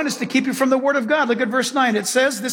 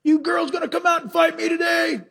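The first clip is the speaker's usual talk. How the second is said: mock Goliath taunt; 7 semitones higher than usual. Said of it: "Goliath got up and yelled at Israel".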